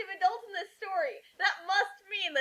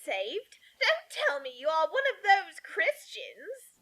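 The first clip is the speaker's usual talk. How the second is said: mock gasp. Voicing Petunia, misread.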